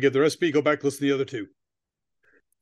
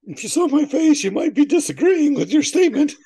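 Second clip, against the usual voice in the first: laughing; 12 semitones higher, 5 dB louder than usual. Real, not acted. Laughing after tasting bad olive.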